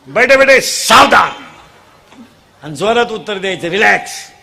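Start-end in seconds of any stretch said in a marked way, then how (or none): 0.1-1.3 mock drill-sergeant call to attention; drill command. Speaker orders the children to sit at attention, drill command.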